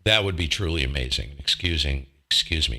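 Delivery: talking while chewing gum; words round a wad of gum; mouth full. Real, not acted. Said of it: "'cause I got gum in my mouth".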